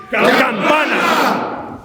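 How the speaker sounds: high, drawn-out group shout; as loud as possible. Shown as a demonstration. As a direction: shout it out together, stretching the word. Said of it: "lo hagamos lo más fuerte que podamos".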